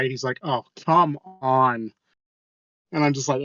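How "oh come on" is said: imitated exasperated sigh, drawn out slowly; full-body sigh. Worker called to clean up broken glass, sighing in exasperation. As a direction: sigh the words out long and slow. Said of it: "do a full body sigh".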